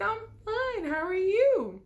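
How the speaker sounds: very high, put-on sociable greeting; over-polite pretence. Answering his mom at the door, falsely pleasant.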